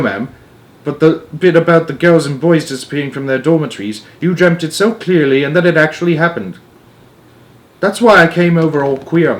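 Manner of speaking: a lightly voiced anxious royal chat; voiced maid and Queen.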